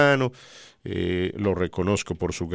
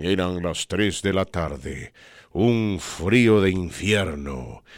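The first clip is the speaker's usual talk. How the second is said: dramatic narrator. Retold or imitated. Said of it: "de manera muy elocuente".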